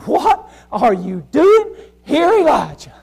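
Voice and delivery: slow, leaning on doing; slow voice of God. Acted. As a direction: ask it again, slowly and probing. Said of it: "He said".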